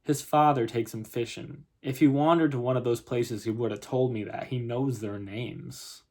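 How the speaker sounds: lightly voiced, insistent Southern mother; Southern accent. Mother defending her son to policeman, insistent Southern accent. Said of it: "if I have a terrible Southern accent".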